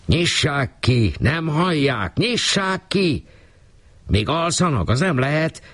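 high, slow, anxious calling out; alarmed neighbours. A narrator's reading. Neighbours calling through the locked door, alarmed.

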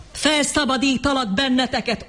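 high, ringing shout. A narrator's reading. John shouting to the attacking crowd. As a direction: hurl the promise over the mob. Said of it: "ordította John".

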